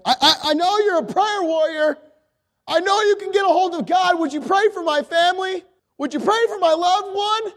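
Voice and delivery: high-pitched, urgent plea for prayer; pleading coworker. Acted. Coworker asks the prayer warrior to pray for family, pleading.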